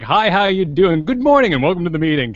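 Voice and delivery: friendly training-video presenter, lifted and chipper; corporate greeting voice. Shown as a demonstration. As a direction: welcome everyone to the company meeting. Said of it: "my normal speaking ... kind of voice".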